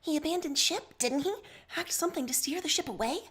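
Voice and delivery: a hint of the suspicious officer; Jacobs. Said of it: "Jacobs points out".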